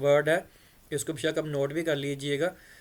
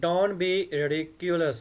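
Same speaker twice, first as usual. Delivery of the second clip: slow pronunciation demo; much slower than usual. Shown as a demonstration. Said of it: "इसको अब कैसे बोलेंगे हम?".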